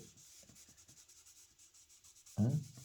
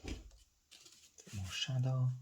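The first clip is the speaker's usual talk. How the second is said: drawn out; 4 semitones higher, 5 dB quieter, much slower than usual. Real, not acted. Artist murmuring while drawing.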